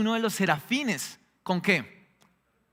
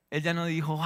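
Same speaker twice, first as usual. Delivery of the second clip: ordinary talk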